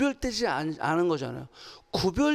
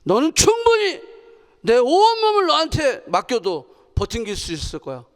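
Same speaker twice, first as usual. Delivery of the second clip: confident declaration; 5 dB louder than usual. Shown as a demonstration. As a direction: declare faith to the chair, mock-solemn. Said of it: "믿음을 가지고 막 선포한단 말이야". (믿음으로 선포하듯 외치기)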